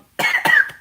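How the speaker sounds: hard coughing fit, choking on water. Real, not acted. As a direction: cough out water that went down wrong. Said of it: "Sorry, water went down the wrong tube".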